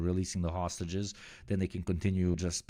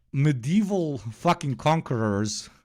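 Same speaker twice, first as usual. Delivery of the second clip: bitter laugh; 7 semitones higher, 5 dB louder, slower than usual. Real, not acted.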